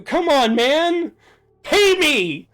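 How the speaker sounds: loud, high shout for money; half-joking loud demand; real shout. Real, not acted. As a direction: yell it out at the chat. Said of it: "don't mean to shout that".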